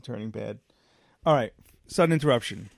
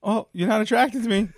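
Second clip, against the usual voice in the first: louder, higher mocking kiss-off; mocking dismissal; 8 semitones higher, 6 dB louder than usual. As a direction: throw her words back, louder. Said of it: "I go".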